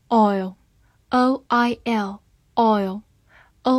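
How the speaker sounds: slow, letter by letter, then the word; slow spelling drill. Shown as a demonstration. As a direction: spell it out slowly for the class. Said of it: "spelling out a word".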